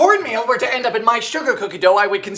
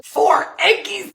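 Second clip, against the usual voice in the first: higher, slow, sweet little voice; cutesy baby talk; 10 semitones higher, slower than usual. Pretend. Baker cooing over the eggs. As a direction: coo it like talking to a pet.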